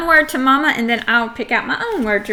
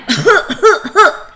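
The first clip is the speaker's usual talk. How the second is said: three loud, high, puffed pretend coughs; demonstrative fake cough; 7 semitones higher, 5 dB louder than usual. Shown as a demonstration. Teacher acting out an -ing word, fake coughing. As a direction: cough on purpose, clearly and evenly. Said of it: "I am coughing".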